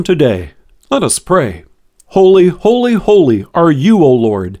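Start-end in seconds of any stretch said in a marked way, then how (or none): 2.1-4.6 prayer. Acted. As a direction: pray it aloud in worship. Leads a closing prayer.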